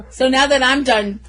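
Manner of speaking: breathless, panting between words; out of breath after a rant; gasping between phrases. Real, not acted. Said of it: "I'm out of breath".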